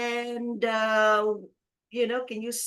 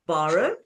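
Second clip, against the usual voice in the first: "Borrow" with a low BOR and rising end; quiz-style "Borrow", stressed on BOR, lifted ending; stress on first syllable; 5 semitones lower, 4 dB louder than usual. Shown as a demonstration. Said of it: "First syllable".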